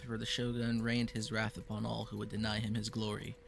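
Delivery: solemn fantasy scene-setting read; game master narration. Acted. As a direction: read the lore like an epic prologue. Game master reads era intro.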